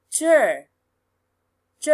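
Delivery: "ch" said alone, held and clearly voiced; isolated "ch" syllable as a vocal exercise; demonstrated voiced syllable. Shown as a demonstration. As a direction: sound out "ch" slowly for learners, pausing between tries. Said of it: "try to say ch".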